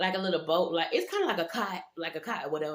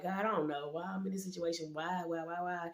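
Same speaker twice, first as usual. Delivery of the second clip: soft retold prayer; 5 dB quieter than usual. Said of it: "praying to God".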